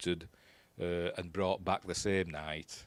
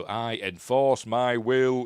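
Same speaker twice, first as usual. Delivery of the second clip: alien voice; 3 semitones higher, 8 dB louder, much slower than usual. Acted. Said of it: "in alien".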